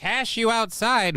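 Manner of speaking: high, slow mock sassy teen voice; cash me outside meme. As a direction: mimic the cash me outside girl, stretched out. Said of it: "cash me outside".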